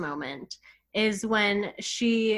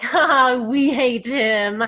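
mock laugh, louder, then a slow "we hate him"; laughing imitation; 4 semitones higher, 7 dB louder, much slower than usual. Quoting her laughing at the professor, slow and amused. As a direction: laugh it off, then drag the words. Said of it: "she just laughs and is like".

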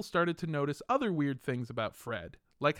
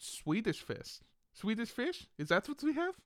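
higher, softer mock Swedish-German accent; fake Swedish accent; 6 semitones higher, 4 dB quieter than usual. German bluffing about Sweden's flag, questioning fake Swedish accent. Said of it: "this is what we sound like in Sweden".

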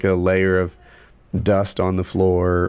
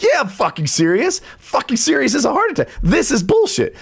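furious. Retold or imitated. Homeowner retorting to contractor's challenge, furious. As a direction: throw it back at him. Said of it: "And I'd be like".

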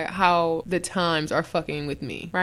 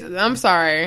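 usual speaking voice

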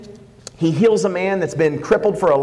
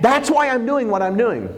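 higher-pitched, fervent sermon delivery; heartfelt pulpit proclamation, pitched up; impassioned preaching; 7 semitones higher than usual. Acted. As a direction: preach it with rising urgency, speaking as Jesus. Preaches as Jesus explaining Himself.

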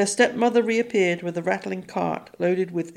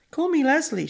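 stepmother voice; 9 semitones higher than usual. A narrator's reading.

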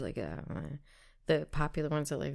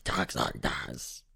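much lower, slow put-on voice; imitating the kid; 14 semitones lower, much slower than usual. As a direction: drop into a silly kid-streamer voice. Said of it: "The kid just makes a loud noise".

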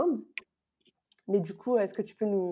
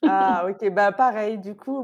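ordinary talk, nothing marked

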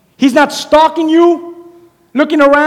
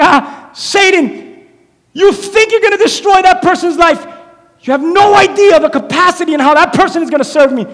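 mocking Jesus; 5 semitones higher, 3 dB louder than usual. Jesus laughing down at Satan, mocking taunt. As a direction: gloat down at the enemy from the throne. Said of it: "he's like".

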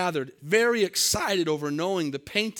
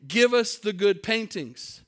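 mock heckler's shout, raised and higher; a heckler's raised shout from the back of the auction room; retold shout; 5 semitones higher than usual. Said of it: "a voice in the back of the room shouted".

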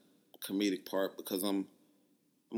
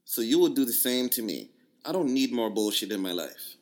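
louder mock Jamaican accent; 3 dB louder than usual. Reading her accusing text in a mild Jamaican accent. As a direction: read her reply with an island lilt and some heat. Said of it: "my Jamaican accent is pretty good".

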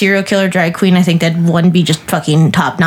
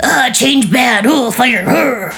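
slow, lightly dumbed-down grunting mock; dumb caveman mockery; 3 semitones higher, much slower than usual. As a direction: say it slowly like a dim caveman, mocking them. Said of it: "they're all like".

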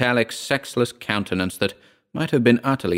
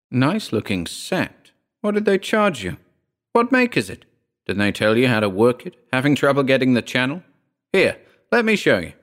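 eager rapid questions; 4 semitones higher than usual. Acted. Guest fires rapid questions.

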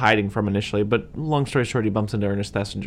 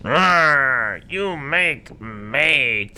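very slow, higher growling monster; 4 semitones higher, 4 dB louder, much slower than usual. Retold or imitated. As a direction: grunt it like Frankenstein's monster. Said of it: "the monster goes".

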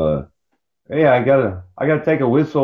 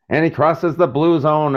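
lightly voiced hockey commentator, higher pitch; mock play-by-play; 5 semitones higher than usual. Pretending to call a hockey game, mock commentator. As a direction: playfully fake a hockey call.

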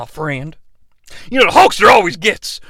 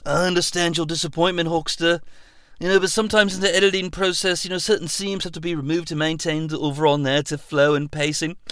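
much softer, quick soothing explanation; Christopher Nolan; 8 dB quieter, faster than usual. Acted. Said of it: "Christopher Nolan".

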